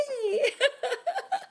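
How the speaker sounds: bright high-pitched laugh. Real, not acted. Host reacts to prepared answer.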